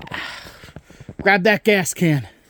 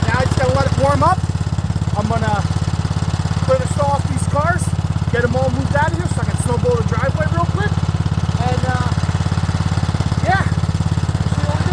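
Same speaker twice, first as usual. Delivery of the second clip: raised voice over engine; 10 semitones higher than usual. Real, not acted. Talking over a running snowblower.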